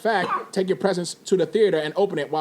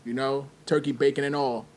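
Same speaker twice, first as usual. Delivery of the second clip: gangster voice. Acted. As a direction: play a laid-back homeboy from the block. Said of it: "Why are you talking like that?".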